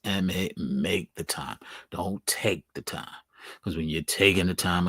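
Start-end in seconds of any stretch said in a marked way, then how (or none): 0.0-3.1 slow, soft, "M A" spelled then "make" stressed; spelled-out emphasis. Shown as a demonstration. Emphasizing make versus take, quiet spelled stress. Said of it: "I emphasize".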